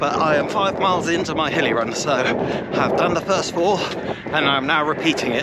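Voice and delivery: winded mid-run, talking between breaths; breathless runner chatting on a hill. Real, not acted. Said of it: "sorry if I sound a little out of breath".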